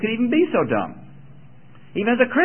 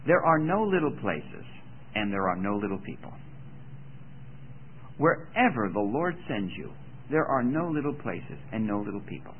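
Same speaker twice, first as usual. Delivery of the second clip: quoting Schaeffer; 5 semitones lower, 6 dB quieter than usual. Retold or imitated. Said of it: "in his own just totally unique way".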